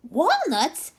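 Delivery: high, loud delighted scream; monkey screaming over walnuts. A narrator's reading. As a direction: scream the word with joy. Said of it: "screamed the monkey".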